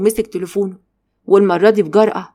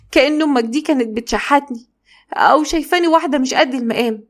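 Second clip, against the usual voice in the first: a touch higher, hurt and complaining; aggrieved wife; 4 semitones higher than usual. Acted. Wife venting to her husband about his mother, aggrieved and higher. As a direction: pour out the grievance to him.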